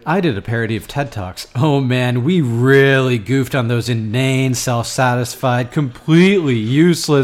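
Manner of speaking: loud. Real, not acted. Boss loudly interrupts.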